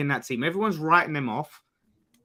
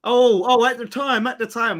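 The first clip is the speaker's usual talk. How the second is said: higher-pitched mimicking whine; mocking echo; 5 semitones higher, 5 dB louder than usual. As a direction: throw their excuse back in mockery. Mimicking the other's excuse back.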